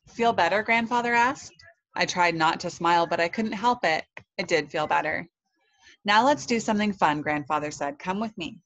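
put-on lively read-aloud for children; story narration. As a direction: tell a children's story with expression.

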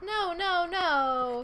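lightly mimicked animal wail; imitated fox cry. Showing the co-host what the foxes say, imitated cry. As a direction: draw out "no" like a fox calling. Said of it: "It sounds like".

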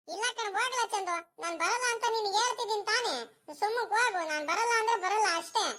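high-pitched, whiny protest; stubborn refusal. Acted. Boy tells Chandu he won't come to play, stubborn refusal.

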